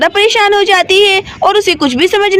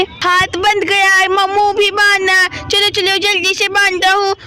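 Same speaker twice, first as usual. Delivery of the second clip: a hint of a child character, talking to himself; lightly done story-boy chatter, word by word; lightly voiced little Shivam. Voices boy Shivam tying mother. (हल्की-सी बच्चे शिवम की आवाज़)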